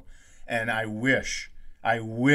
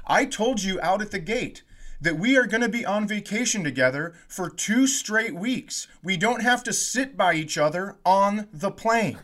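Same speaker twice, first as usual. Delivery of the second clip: mock annoyed husband; 7 semitones higher than usual. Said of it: "And he goes".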